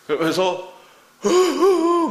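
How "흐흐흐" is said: high, louder mock sobs; imitated child sobbing. Father imitating his fallen daughter sobbing, high and loud. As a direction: do the little girl's hiccuping cry. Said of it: "막 우는 거예요".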